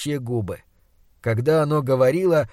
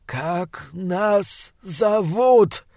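slow, hushed, rotting monster voice; 3 semitones higher, much slower than usual. Acted. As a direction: drag each word like a dying beast. Monster repeats question.

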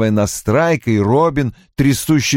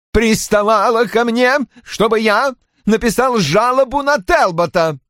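indignant complaint; 12 semitones higher than usual. A narrator's reading. Roy complains in the quarrel.

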